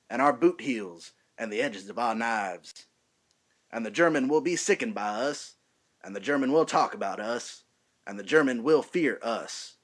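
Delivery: put-on rally the recruits in a lightly done Southern accent; Brad Pitt as Aldo Raine. Lieutenant addressing his new recruits in a light Southern accent. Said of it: "I'm gonna be doing Brad Pitt's introduction scene".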